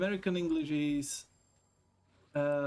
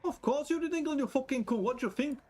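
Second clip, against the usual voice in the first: much higher, mock-aggressive West Yorkshire accent; hammed-up West Yorkshire threat; West Yorkshire thug; 9 semitones higher than usual. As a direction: play the rough West Yorkshire bloke, hammed up. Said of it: "West Yorkshire".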